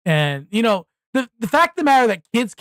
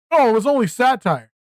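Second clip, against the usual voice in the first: lightly voiced sneering excuse; mock excuse; 3 semitones higher than usual. Mocking the satire excuse, mild sneering voice. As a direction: toss it off like a lame cover story. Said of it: "be like".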